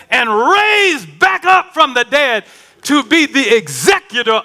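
fervent preaching. Acted. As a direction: drive each phrase home to the church.

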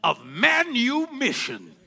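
Chicken George. Retold or imitated. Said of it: "Chicken George say".

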